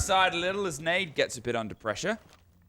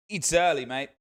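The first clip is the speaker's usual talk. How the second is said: dubious attempt at an Australian accent. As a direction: try a vague Australian accent. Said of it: "Was that meant to be an Australian accent?".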